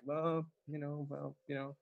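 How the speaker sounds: mock a man who can't be bothered to react; lightly imitated shrug of a voice; mumbled indifferent reply. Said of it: "he's just sitting there like".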